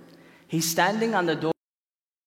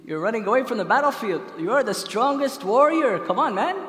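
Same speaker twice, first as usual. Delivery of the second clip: raised, louder pep-talk protest; goading; 4 semitones higher, 4 dB louder than usual. Acted. Shaitan chides a warrior running from the battlefield, goading. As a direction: urge a deserter back into the fight.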